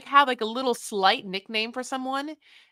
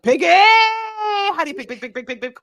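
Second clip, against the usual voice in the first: mock squeal; 8 semitones higher, 9 dB louder than usual. Mock boyfriend cooing at pig.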